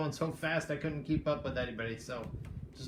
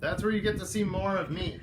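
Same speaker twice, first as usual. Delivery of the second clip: laughing; 3 semitones higher than usual. Real, not acted. Joking about being seen.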